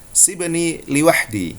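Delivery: slow Egyptian Arabic phrase; Egyptian Arabic accent. Shown as a demonstration. Teacher giving students the Egyptian version, slow. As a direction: say it the Egyptian way, slowly. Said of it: "Demikian juga orang Mesir".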